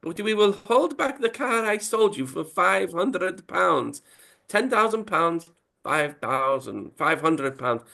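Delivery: slow, high hammy Italian car dealer; Italian accent. Retold or imitated. Italian accent, car dealer denying it is a bribe. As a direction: draw it out in mock Italian. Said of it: "Paolo says".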